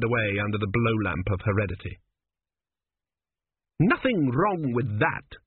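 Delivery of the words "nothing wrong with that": snapped. Acted. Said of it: "she snapped".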